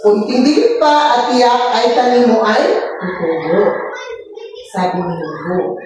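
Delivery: masiglang pagbabasa ng kuwento sa mga bata; pagbasa ng kwento. A narrator's reading. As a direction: basahin nang malinaw at buhay, parang guro sa klase. (guro na nagbabasa ng kuwento sa mga bata, masigla)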